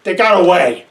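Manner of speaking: loud, furious outburst; angry shout. Acted. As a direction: curse it out at full volume. Villain curses after escape.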